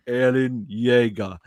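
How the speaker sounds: slow, drawn-out mock anime delivery; anime response. Recruiter answering callers with a slow mock anime voice. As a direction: say it like an anime hero, deadpan. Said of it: "I just give them an anime response".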